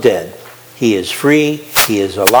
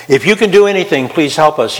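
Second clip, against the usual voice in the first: cry of despair; 4 semitones higher than usual. Retold or imitated. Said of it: "that's a cry of despair".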